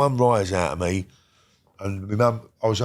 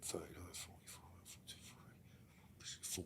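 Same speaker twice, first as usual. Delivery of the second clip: slow, breathless whisper trailing off; whispered counting; 4 semitones lower, 31 dB quieter, much slower than usual. Retold or imitated. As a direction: murmur the numbers as the sentence sinks in. Counting his years alone in cell.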